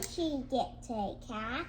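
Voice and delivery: careful reading with "cat" lifted at the end; question intonation. Shown as a demonstration. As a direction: reread it as a question, rising on "cat". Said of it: "raising the tone of your voice at the end".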